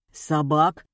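hesitant, low, tentative answer; timid guess. A narrator's reading. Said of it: "робко предположил Колян". (робкое предположение)

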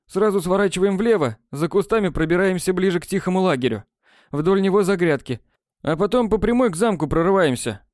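a lightly voiced boy laying out the escape route; brisk, plotting briefing; scheming schoolboy. A narrator's reading. A boy briefing friends on sneaking past werewolves.

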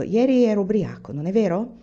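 embarrassed but brazen; bold yet ashamed. Acted. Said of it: "tra ardito e vergognoso". (tra ardito e vergognoso, imbarazzato)

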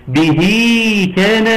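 "به" chanted high with a long ee before "كان"; minor connecting madd. Shown as a demonstration. Teacher showing the sign after the haa, lengthened "به كان". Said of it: "مد صلة صغرى".

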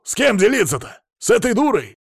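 high, loud furious tirade; flaring up. Acted. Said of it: "взвился Мамонов".

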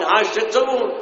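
"شو تسوون" asked high and firm, a first reproach. Retold or imitated. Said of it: "قال". (عتاب بنبرة مرتفعة قليلا)

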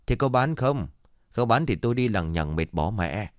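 mildly acted irritation; irritable snap. Dog buyer snaps at grandma and child, irritable. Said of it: "giọng cáu gắt".

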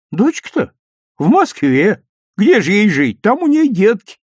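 high, lively granny voice; chatty old woman. A narrator's reading. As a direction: answer as if it's obvious. Old woman answers boys matter-of-factly.

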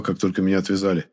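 usual speaking voice

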